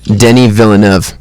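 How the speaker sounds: "Denny Villeneuve" with plain English DEN-ee; quoted name pronunciation. Retold or imitated. Co-host passing on an actor's pronunciation, DEN-ee vil-uh-NUV for "Denny Villeneuve". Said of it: "he's been pronouncing it".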